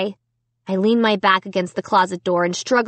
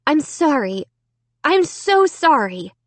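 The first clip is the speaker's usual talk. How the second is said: emotional apology; 6 semitones higher than usual. A narrator's reading. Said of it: "she cried with emotion".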